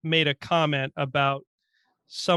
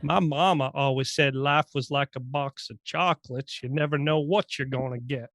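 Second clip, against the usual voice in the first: put-on Forrest Gump accent. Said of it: "How about this one".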